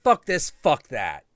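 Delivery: loud, high shouted curses; mock American swearing. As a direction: bark the curses like a frustrated American. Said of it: "in America, we're like".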